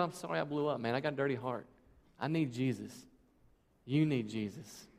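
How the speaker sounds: soft, humble admission; hushed sorry, slowing at the end; sincere apology. Shown as a demonstration. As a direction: own up quietly, no excuses. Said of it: "Just say".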